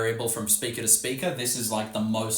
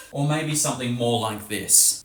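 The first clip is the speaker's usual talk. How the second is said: laughing through words. Real, not acted. Teacher still laughing while redrawing the chart, words through laughter. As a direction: talk through leftover laughter.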